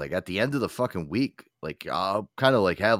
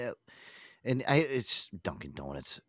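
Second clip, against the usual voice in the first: usual speaking voice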